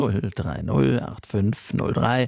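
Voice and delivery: phone number read out slowly. Shown as a demonstration. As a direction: say each digit slowly and clearly. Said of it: "noch mal ganz langsam sagen".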